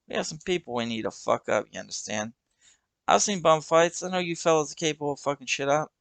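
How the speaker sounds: put-on brash young punk making his pitch; the kid's voice.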